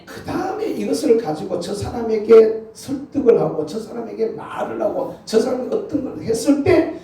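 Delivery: high, loud preaching climax; full-force preaching. Acted. The pastor rousing the congregation to a blessing, preaching loud.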